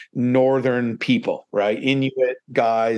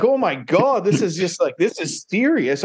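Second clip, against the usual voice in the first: mock shock; 5 semitones higher than usual. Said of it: "And I'm like".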